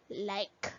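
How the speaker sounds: like said slowly and clearly; like, said clearly as laɪk for repeating; teacher's model word. Shown as a demonstration. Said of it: "Say like".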